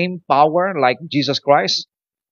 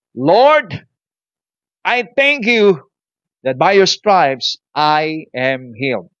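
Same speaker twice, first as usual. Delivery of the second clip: bold prayer of faith; slower than usual. Shown as a demonstration. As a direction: pray it out with confidence. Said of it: "You have to say". (malakas na panalangin ng pananampalataya)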